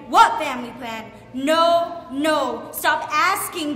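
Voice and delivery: put-on sharp, loud no to a nagging child; angry mother. Mother cutting off her daughter's phone begging, loud and annoyed. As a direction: shut the request down hard, with rising temper.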